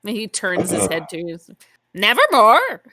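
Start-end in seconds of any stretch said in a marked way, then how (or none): 1.9-2.8 loud, high squawked "Nevermore"; raven croak. Acted. Game master giving the raven a loud, high squawk. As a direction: caw it out like a raven. Raven on his shoulder speaks.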